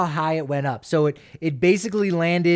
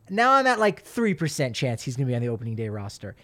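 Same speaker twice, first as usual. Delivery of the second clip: mock excited; 3 semitones higher than usual. Real, not acted. Jokingly ups his odds.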